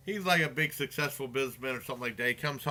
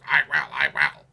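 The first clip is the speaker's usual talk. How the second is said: loud, punchy acted-out reply; hammed-up eager shout; mock crazed eagerness; 7 dB louder than usual. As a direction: belt it out like a movie madman. Acting out crazed movie character's reply.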